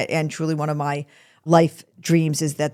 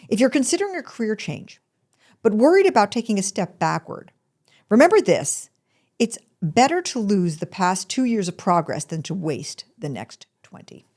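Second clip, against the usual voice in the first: measured read-aloud with pauses, higher at first; quote reading; 3 semitones higher than usual. Real, not acted. Podcast host reading an author's career advice, deliberate quote reading. Reads out a quotation.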